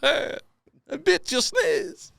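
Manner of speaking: high, slow, cackling taunt; mocking laugh. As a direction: cackle like a smug jerk. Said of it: "laughing in the corner".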